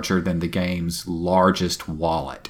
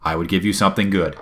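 boastful swabby taunt. Retold or imitated. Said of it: "he says".

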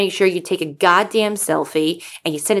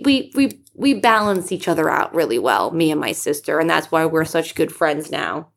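ordinary talk

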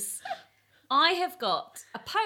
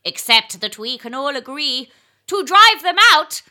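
slow, high declaiming, rising to a crescendo; dramatic eel's battle cry, drawn out and growing louder; small-eyed eel voice; 4 semitones higher, 9 dB louder than usual. Acted. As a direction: recite as a tiny-eyed eel, building to a shouted finish. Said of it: "as if your eyes are really small".

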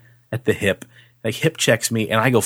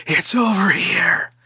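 slow, drawn-out spooky whisper; eerie, lingering ghostly whisper; disembodied voices; 9 semitones higher, slower than usual. Retold or imitated. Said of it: "four or five disembodied voices say".

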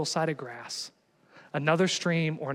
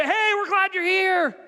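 hammed-up welcome shout at the front door; cheery host greeting; 12 semitones higher, slower than usual. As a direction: greet the guest like a thrilled host. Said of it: "And we're gonna say".

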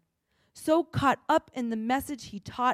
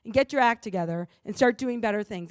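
louder, fast, hammed-up scolding; mock condemnation; 6 dB louder, faster than usual. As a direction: lecture them like a finger-wagging judge. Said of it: "Jesus didn't come to say".

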